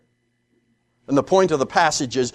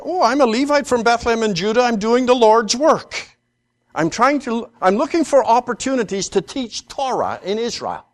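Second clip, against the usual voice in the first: a bright, fast, higher "Oh, I'm a Levite" of a keen pious job seeker; pious eager Levite; 6 semitones higher than usual. Retold or imitated. Preacher mocking the Levite's pious pitch to Micah, quick and bright. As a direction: play the eager do-gooder priest, quick and upbeat. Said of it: "Is that what he says?".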